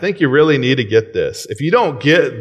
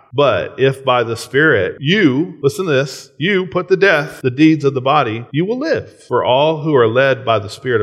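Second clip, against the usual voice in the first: emphatic scripture reading; 3 semitones higher than usual. Acted. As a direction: preach the verse to the congregation. Reading Romans with force.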